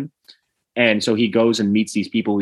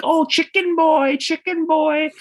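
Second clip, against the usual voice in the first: high, drawn-out hail; mock excited greeting; slower than usual. Restaurant workers greeting a regular, mock excited call. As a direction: imitate a crowd happily calling out a nickname, way up high. Staff greeting Larry by nickname.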